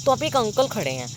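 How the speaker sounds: usual speaking voice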